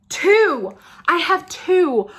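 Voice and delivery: high, loud and drawn out; excited squeal; thrilled. Real, not acted. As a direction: exclaim it with gleeful disbelief. Thrilled to have two balms.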